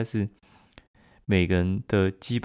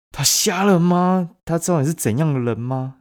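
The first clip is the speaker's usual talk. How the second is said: mocking boy; 9 semitones higher, 7 dB louder than usual. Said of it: "另外一个男生说".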